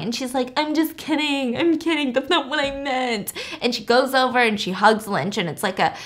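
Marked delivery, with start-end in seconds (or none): 0.6-3.3 whimpered, put-on crying apology; mock crying. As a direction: imitate a weepy girlfriend taking it back. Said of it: "she starts crying".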